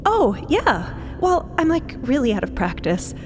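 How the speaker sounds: awkward, self-deprecating brush-off; embarrassed. Acted. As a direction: play it down with cringing embarrassment. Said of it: "Cleo seems really kind of embarrassed".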